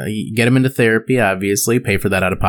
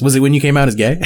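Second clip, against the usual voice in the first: leading therapist question; gently probing therapist voice; calm crisis counselor; 3 semitones higher, 3 dB louder than usual. Retold or imitated. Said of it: "My impression of a therapist who asked really leading questions".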